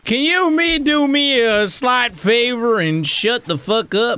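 sarcastic echo of a polite request; mocking imitation. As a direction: parrot the question back, snide. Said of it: "mocking the polite request".

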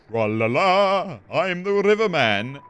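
slow, lilting sing-song ferryman; river person. Acted. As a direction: stretch it out like a merry boatman. Voicing the singing river person.

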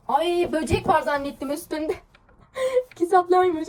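high, loud gasp turning into laughter; startled then laughing. Real, not acted. She mistakes the cover's books for a bug, a startled laugh.

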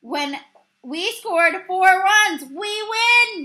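high, loud, slow triumphant yell. A narrator's reading. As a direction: proclaim victory at full voice. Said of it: "yelled Miller's manager".

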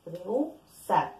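rehusar drawn out very slowly, syllable by syllable; slow example word. Shown as a demonstration. Teacher to class demonstrating an example word, very slow. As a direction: stretch rehusar so the vowel split is heard. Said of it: "acá que tenemos dictongo".

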